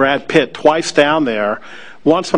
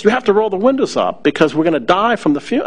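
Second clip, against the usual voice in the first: put-on German accent; 5 semitones higher than usual. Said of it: "rather thick German accent".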